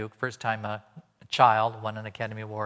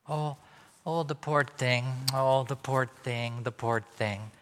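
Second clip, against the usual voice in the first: mock pitying coo; slower than usual. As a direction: coo over the poor thing, lightly voiced. Parents pitying the child.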